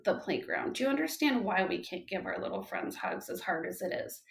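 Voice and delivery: soft reassuring mom voice; gentle questioning. Retold or imitated. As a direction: ease her into it gently. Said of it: "and I said".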